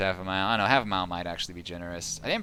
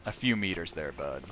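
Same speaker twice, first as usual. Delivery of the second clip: quiet repeat; 4 semitones lower, 5 dB quieter than usual. Acted. Repeats the jab softer.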